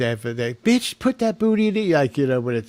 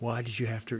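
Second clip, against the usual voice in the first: sinister, creeping, creepy villain voice; 11 dB quieter than usual. Imitating the dog turning serious in a cartoon: creepy villain voice. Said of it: "this creepily".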